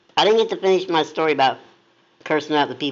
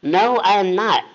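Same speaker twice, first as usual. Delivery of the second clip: higher, outraged denial; protest, shocked and offended; mock outraged no; indignant surprise; 7 semitones higher, slower than usual. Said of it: "I said".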